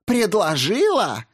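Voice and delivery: high, slow outraged question; incredulous. A narrator's reading. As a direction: echo his word in disbelief. Olga incredulous repeating his word.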